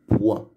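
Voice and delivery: "poire" split into poi, pause, re; deux syllabes. Shown as a demonstration. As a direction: sound the final re of "poire" as its own syllable. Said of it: "avec deux syllabes". (« poire » en deux syllabes séparées : poi, re)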